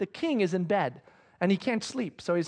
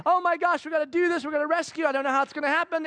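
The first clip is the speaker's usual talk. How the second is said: mock excited; 6 semitones higher, faster than usual. Mordecai and Esther excited plotting.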